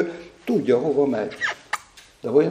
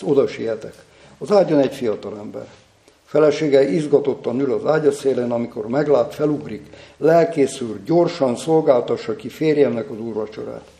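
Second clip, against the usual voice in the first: measured, emphatic story narration; story read aloud. A narrator's reading. A preacher reads a deathbed story to listeners, emphatic story narration. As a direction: read it out with dramatic weight.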